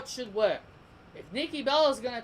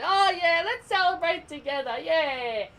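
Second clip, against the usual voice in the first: much higher, much louder, sugary mock voice; mocking goody two shoes; 7 semitones higher, 7 dB louder than usual. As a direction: ham up a fake-sweet cheerleader. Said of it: "Miss Goody Two Shoes over here".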